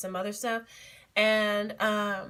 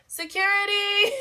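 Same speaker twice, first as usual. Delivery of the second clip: mock call for security; 11 semitones higher than usual. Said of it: "she jokingly was just like".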